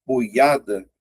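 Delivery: "boiada" said slowly, each part clear; slow demonstration. Shown as a demonstration. Teacher slowing down "boiada" for students to hear. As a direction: slowly spell out "boiada" by ear. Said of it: "se você observar bem".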